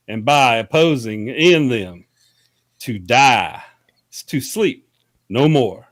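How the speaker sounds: put-on Hamlet soliloquy read slowly in a Southern country accent; a goofy Southern country reading of Shakespeare, slow and deliberate. Host reading Hamlet to his cohosts in a slow country accent. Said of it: "read Shakespeare in my real country accent".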